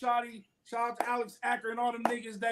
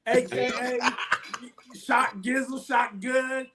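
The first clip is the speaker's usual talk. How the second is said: laughing hype intro. Acted.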